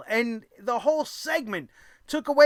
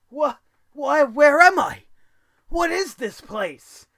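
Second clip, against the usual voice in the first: higher, mock-bewildered outburst breaking into a scream; bewildered wrestler; 5 semitones higher, 3 dB louder than usual. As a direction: act out Otis, lost and appalled. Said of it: "He's just like".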